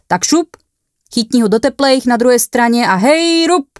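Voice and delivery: loud, high bossy command; ordering. A narrator's reading. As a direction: hurry him into lifting. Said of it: "poručil saniťák".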